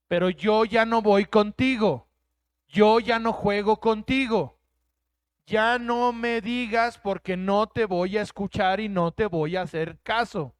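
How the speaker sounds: stern divine rebuke, no longer listening; God's stern refusal. Pretend. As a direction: speak as God turning away from the stubborn. Preacher voicing God rejecting people.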